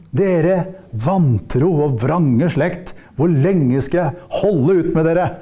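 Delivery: slow, measured scolding; understated acted reprimand; stern rebuke. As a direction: draw out the words in reproach. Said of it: "hvor han refser disiplene sine".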